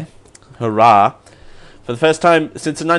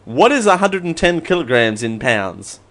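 repeating to voice assistant. Acted. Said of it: "ask my trusty assistant".

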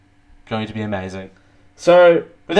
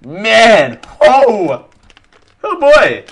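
excited; 8 semitones higher, 9 dB louder, much slower than usual. Real, not acted. Excited reaction to food smell.

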